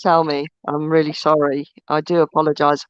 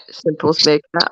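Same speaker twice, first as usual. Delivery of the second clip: put-on Sunderland accent; 4 semitones lower, slower than usual. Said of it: "it was meant to be a Sunderland accent".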